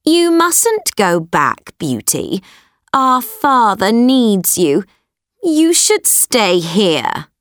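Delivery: bossy sister voice. Acted. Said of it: "her selfish sisters said".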